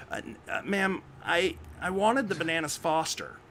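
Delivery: retold polite complaint, stumbling into it; hesitant protest. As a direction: imitate a halting, stammered objection. John stammers a complaint to waitress.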